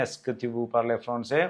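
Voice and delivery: very slow, every word spaced; slow French model. Shown as a demonstration. Teacher showing how to ask with est-ce que, slowly. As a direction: lay out each word slowly for learners. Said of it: "ചോദിക്കുന്നത് എങ്ങനെയാണ്".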